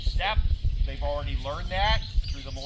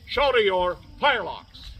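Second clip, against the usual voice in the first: drawn-out command; 2 semitones higher, 8 dB louder than usual. Acted. Drill command, slow and loud.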